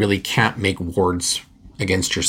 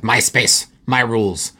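domineering; 4 semitones higher, 4 dB louder, slower than usual. Retold or imitated. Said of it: "just very domineering".

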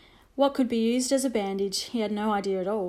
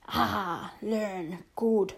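approving; 3 dB quieter, much slower than usual. A narrator's reading. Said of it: "said Little Bear approvingly".

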